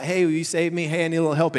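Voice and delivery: mock offhand plea; casual request. Shown as a demonstration. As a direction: ask lightly, as if it's a small favor. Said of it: "It's not".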